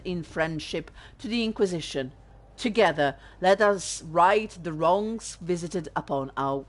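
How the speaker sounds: a lightly voiced, stately read of a prince's letter, no accent; formal letter reading. Streamer reads Prince Sebastian's letter to viewers, formal stately reading. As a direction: read it out like a pompous royal missive.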